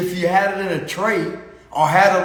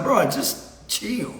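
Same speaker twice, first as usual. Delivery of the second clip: slow, softer laid-back "chill"; lazily unbothered, softer and slow; chill advice; 2 semitones higher, 5 dB quieter, much slower than usual. Retold or imitated. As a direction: drawl it out like nothing matters. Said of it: "somebody that's like".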